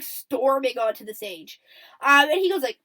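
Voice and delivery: normal talking voice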